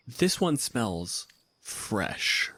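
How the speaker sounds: very slow, suspicious troll line; slow troll sniff. Acted. Troll sniffing the fresh scarecrow, slow and wary. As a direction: savor the smell like a wary troll.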